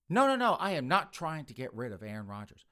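mock-indignant protest; emphatic denial. Mother denying her accuser's charge, emphatic. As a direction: deny the charge firmly, punching the first words.

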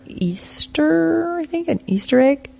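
words pushed out on a burp. Real, not acted. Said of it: "So there was a slight delay there for, um, the carbonation in the beer to come out".

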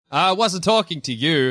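a slow, odd put-on voice; Mario denying, in a slow put-on voice. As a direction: play Mario brushing it off slowly. Voicing Mario's denial.

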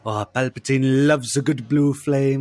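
light mock impression of a friend, punch on "loves"; a hint of Luke's delivery, "loves" stressed; imitating Luke. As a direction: lean on "loves" the way Luke says it. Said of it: "as, um, Luke will say".

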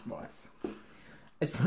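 put-on light Cockney accent. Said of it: "take the Cockney accent away".

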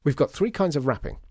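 high, loud breathless announcement. Acted. Assistant back with tins, breathless and loud. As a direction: rush back and report, out of breath. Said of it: "he said breathlessly".

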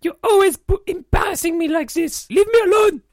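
protest, then push your partner away; upset outburst. Acted. Embarrassed interviewee tells his partner off, upset. Wounded outburst in staged quarrel.

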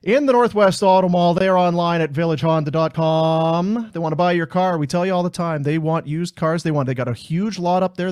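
punchy sponsor read, loud at the top; upbeat live car-dealer promo; radio ad read. Real, not acted. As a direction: sell the dealership in a lively announcer style.

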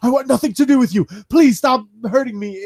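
mock pleading with a hint of Canadian accent. Wrestling fan imitating Kevin Owens begging Braun, light Canadian accent. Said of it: "in his Canadian accent".

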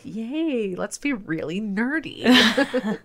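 high, drawn-out little cheer; self-teasing nerdy delight; playful geeky glee. Acted. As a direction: cheer slowly, sliding up and down, ending in a laugh. Mock-cheering own love of nerdy stuff.

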